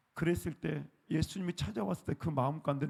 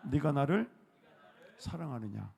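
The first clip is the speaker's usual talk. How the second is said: gentle Jesus; 2 semitones lower than usual. Shown as a demonstration. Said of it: "한번 따라해볼까요?".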